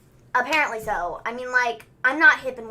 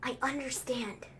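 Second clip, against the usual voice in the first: slow, hushed Australian accent attempt; bad Australian accent; 4 semitones lower, 16 dB quieter, slower than usual. Podcaster retelling Murphy's apology promo, poor quiet Australian accent. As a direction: murmur it slowly in a badly faked Australian accent. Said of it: "I can't do an Australian accent".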